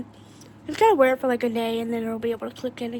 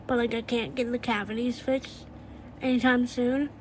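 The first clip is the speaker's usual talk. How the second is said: retainer in the mouth; speech slightly blocked by a retainer; wearing a retainer. Real, not acted. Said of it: "I'm trying my best to talk normally".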